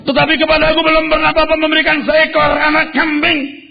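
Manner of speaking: high, loud bitter protest; angry elder son. Acted. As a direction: spit out the grievance to father. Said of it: "Lalu dia berkata begini". (anak sulung mengeluh dengan marah, suara tinggi)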